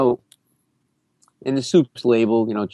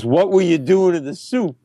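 raised, accusing repeat question; mock-accusing, higher-pitched demand; accusatory; 5 semitones higher than usual. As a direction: repeat the accusation, pressing harder. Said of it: "like, very accusatory".

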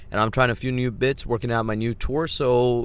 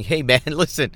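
loud, higher angry outburst at the pushy guys; angry retort; 5 semitones higher, 5 dB louder than usual. Retold or imitated. Fed-up driver to the overcharging tire guys, angry outburst. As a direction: snap back at them, half laughing. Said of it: "Just leaves you angry and going".

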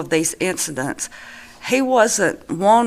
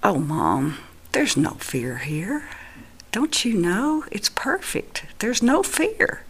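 eye-rolling reassurance; 6 dB quieter than usual. Retold or imitated. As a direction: gently chide with an imagined eye roll. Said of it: "he rolled his eyes".

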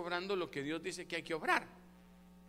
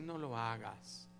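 little voice; 8 semitones lower, 8 dB quieter, slower than usual. A narrator's reading. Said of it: "la vocecita te dice".

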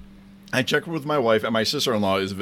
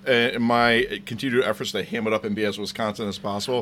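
talking with a mouthful of food; words round a bite of food; mouth full; faster than usual. Real, not acted. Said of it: "If it sounds like I have something in my mouth".

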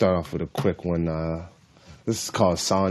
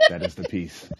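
laughing; 3 semitones lower, 7 dB quieter than usual. Real, not acted. Laugh after own haiku.

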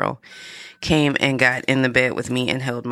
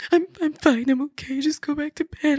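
forcing a brave voice; 11 semitones higher than usual. Retold or imitated. Mother, after sobbing, tells her daughter she's fine in a high, small voice. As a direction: squeeze out a thin high "I'm fine" to hide the crying. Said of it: "me, the Marine that I am, was like".

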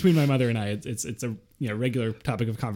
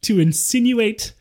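mock indignant rant; 5 semitones higher, 4 dB louder than usual. Mock outrage rant at mom.

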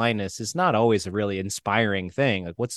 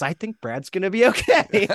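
brother's relieved voice; 9 semitones higher, 4 dB louder than usual. Retold or imitated. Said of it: "he goes".

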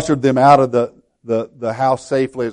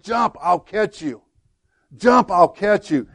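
retold holler; 8 semitones higher, slower than usual. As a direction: imitate a dad calling up, pitched high. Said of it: "he hollered up to his little boy".

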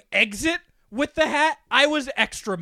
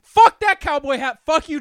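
loud mock rage; 5 semitones higher, 7 dB louder than usual. Real, not acted. Ranting at Bezos hat.

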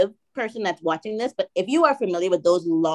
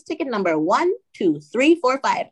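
slow, higher, digit-by-digit ticket number; deliberate repeat; 4 semitones higher than usual. Retold or imitated. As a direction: repeat it slowly for someone who missed it. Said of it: "can you repeat that".

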